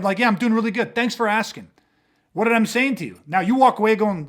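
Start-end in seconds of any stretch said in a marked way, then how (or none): 0.2-1.7 mock-cheery sarcastic brush-off. Shown as a demonstration. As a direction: thank them while making it clear you are irritated. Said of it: "there's so much sarcasm".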